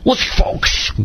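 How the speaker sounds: gruff radio-host voice; Rush impression. Two friends on a podcast, mimicking a radio host. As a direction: try a Rush Limbaugh impression. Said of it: "I can't do a very good Rush".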